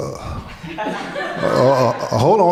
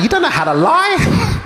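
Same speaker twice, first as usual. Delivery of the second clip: mock shout; 13 semitones higher than usual. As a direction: call her out with a high yell. Son mocks mother's obvious lie.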